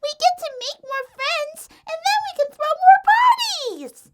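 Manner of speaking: very high squeaky character voice; bubbly excitement. A narrator's reading. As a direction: build to a gleeful shout. Excited pony bouncing with glee.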